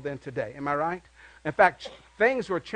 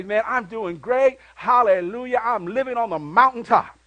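upbeat churchgoer reply; 3 semitones higher, 5 dB louder than usual. Retold or imitated. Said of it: "And you say".

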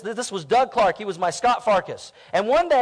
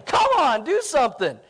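taunting; 4 semitones higher than usual. Retold or imitated. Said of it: "I was, like, taunting him".

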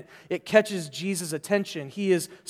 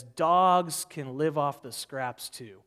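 calm retort; 4 semitones lower, slower than usual. Retold or imitated. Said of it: "fierce logic and evocative need".

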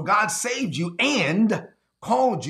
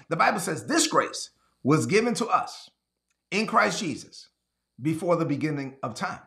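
slowly. Shown as a demonstration. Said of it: "Let me read that again slowly for the people in the back".

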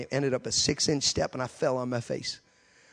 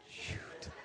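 breathy whispered "Shoot" under a laugh; whispered dismay; 17 dB quieter than usual. Retold or imitated. To himself at the altar call, whispered dismay. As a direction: mutter it to yourself, caught out. Realizing he must go first.

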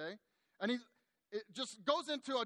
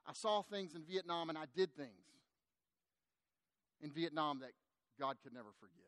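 grave confession; 5 semitones lower than usual. Retold or imitated. Veteran confesses guilt over Vietnam.

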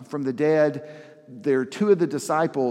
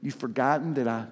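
lightly voiced tender Jesus, pleading not scolding; compassionate. Jesus reminding disciples of his miracles, gently compassionate. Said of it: "You can almost hear the compassion in Jesus's voice".

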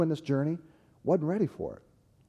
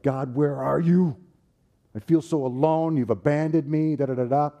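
anguished psalm cry; 4 semitones higher, 5 dB louder than usual. Retold or imitated. David crying out to God in the Psalms, anguished. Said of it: "when David says stuff like".

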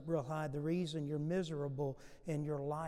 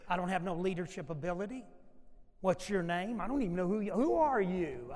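protesting Moses; 5 dB louder than usual. Retold or imitated. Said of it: "what Moses said".

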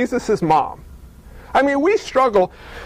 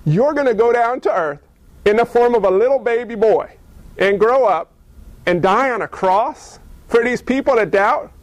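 amazed Gabriel; 3 semitones higher than usual. Acted. Gabriel stunned, questioning God.

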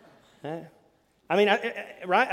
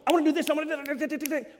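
higher and fast, piling on wants; fast worked-up demands; 10 semitones higher, faster than usual. Retold or imitated. Spouse pushing their wishes in an argument, fast and worked up. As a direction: rattle them off like a pushy spouse. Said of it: "when we start going".

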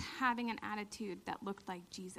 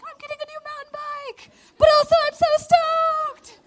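much higher, loud, thrilled squeal; excited; 15 dB louder than usual. Retold or imitated. On the podium holding the trophy, thrilled and loud. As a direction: burst out with joy over the prize. Winning a thousand-dollar check.

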